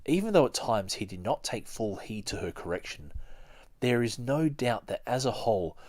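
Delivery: steady read-aloud narration voice; measured audiobook reading; book reading. Acted. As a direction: read it like a chapter to listeners. Reads a biography aloud.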